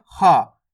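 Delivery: हा breathed out from the mouth; air released. Shown as a demonstration. Teacher shows learners the letter, हा with air released. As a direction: let the air go on the H of हा. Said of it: "मुंह से आपको हवा छोड़नी है".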